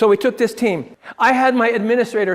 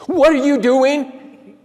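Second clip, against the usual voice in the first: slow, higher and louder, drawn-out challenge; stern boss question; 5 semitones higher, 5 dB louder, much slower than usual. Retold or imitated. Administrator slowly confronting coach, loud and pointed. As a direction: stretch each word like a boss who already knows.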